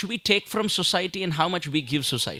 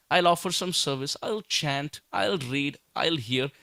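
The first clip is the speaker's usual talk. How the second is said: mocking self-centred plans; 3 semitones lower, 3 dB quieter than usual. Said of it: "And what is that?".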